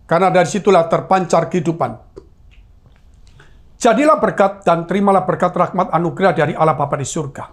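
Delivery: measured, even blessing cadence; solemn benediction. Real, not acted. Pastor sends congregation off with a blessing, solemn benediction. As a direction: bless the congregation in steady formal phrases.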